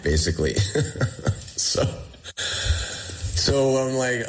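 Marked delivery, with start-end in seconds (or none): none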